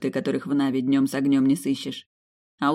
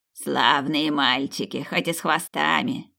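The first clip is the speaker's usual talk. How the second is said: put-on slow, kindly old woman; slow granny approval; slower than usual. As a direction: drawl it like a village granny. Old grandmother praises boys.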